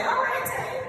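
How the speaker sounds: high, laughing pep talk to herself; self-congratulation. Shown as a demonstration. Speaker praising herself after finals, high and giddy. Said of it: "take that time to say".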